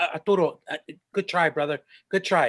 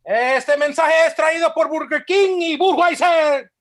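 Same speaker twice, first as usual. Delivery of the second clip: store announcement. Acted. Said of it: "That was amazing".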